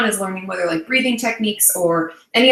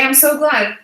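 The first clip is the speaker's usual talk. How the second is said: normal talking voice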